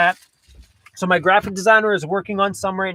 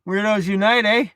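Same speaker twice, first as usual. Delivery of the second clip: Canadian eh; 3 semitones higher than usual. Shown as a demonstration. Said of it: "Totally Canadian".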